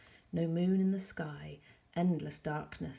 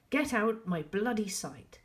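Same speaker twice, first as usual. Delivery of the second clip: high, loud snap; angry yell; 5 semitones higher, 6 dB louder than usual. A narrator's reading. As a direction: yell it in fury. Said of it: "he yelled".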